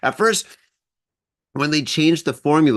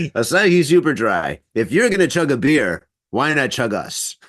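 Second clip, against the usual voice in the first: ad announcer. Pretend. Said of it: "maybe that should be their tagline".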